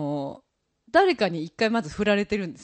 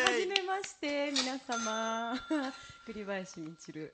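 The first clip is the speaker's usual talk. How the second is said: trying not to laugh; 3 semitones higher, 11 dB quieter, slower than usual. Real, not acted. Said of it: "もう吹き出しそうなの、必死でこらえてて".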